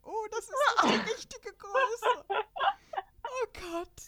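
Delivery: a touch of comic panic; mock dismay. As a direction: play the panicked printer user, half laughing. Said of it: "Das hätte mir passieren können".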